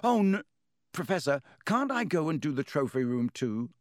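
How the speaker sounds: put-on boy pleading with his teacher; desperate plea. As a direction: beg to be spared. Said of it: "said Harry desperately".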